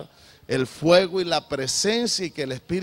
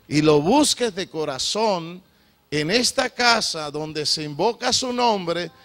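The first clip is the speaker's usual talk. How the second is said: slow, emphatic preaching; 3 dB louder than usual. Acted. Pastor urging the congregation to repent, slow emphatic preaching. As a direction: lean on every phrase like a pulpit call. Preacher drives the point home.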